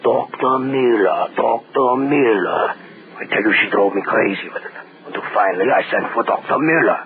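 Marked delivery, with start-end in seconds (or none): 0.0-2.7 a mild, slow imitation of a frail old woman calling; imitating old woman. Neighbor imitating the dying woman's calls, slow and mild. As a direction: drag the name out slowly like a sick old woman. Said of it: "It was the old woman".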